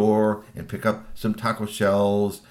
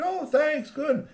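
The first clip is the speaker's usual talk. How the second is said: pleased thanks; much slower than usual. Acted. Friend gets his truck back.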